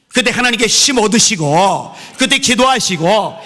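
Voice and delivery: loud, high preaching over music; preaching blessing. Acted. Pastor blesses the congregation, loud preaching. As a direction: proclaim the blessing with full force.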